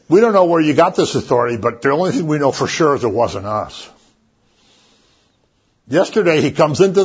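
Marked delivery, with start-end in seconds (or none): 0.1-2.9 fast, raised challenge; quick indignant answer from the holy men; indignant retort. Acted. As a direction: snap back as a priest. Voicing the holy men's retort.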